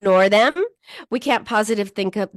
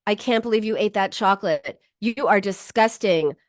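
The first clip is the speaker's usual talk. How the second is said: harsh self-scolding. Shown as a demonstration. Coach showing cruel self-talk, harsh scolding. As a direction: tear into yourself with disgust. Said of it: "would you say to your friend".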